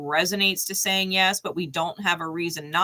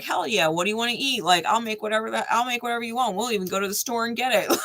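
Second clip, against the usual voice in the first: eager parent; 4 semitones higher, faster than usual. Retold or imitated.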